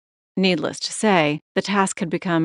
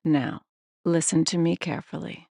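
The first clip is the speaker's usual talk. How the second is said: lower, softer ominous caller; deeper voice; 4 dB quieter than usual. Acted. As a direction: drop the voice down, menacing. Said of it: "His voice deepened".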